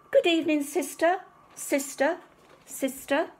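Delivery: high calling duck voice; duck quacking. A narrator's reading. Duck calling into the cave to her sister, high. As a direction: call up into the cave, fading. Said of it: "She quacked".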